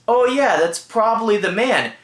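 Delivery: nonchalant. Retold or imitated. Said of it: "the way he nonchalantly goes".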